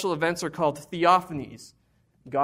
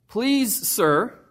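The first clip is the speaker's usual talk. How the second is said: polite plea; 4 semitones higher, 4 dB louder than usual. Acted. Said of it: "he's polite".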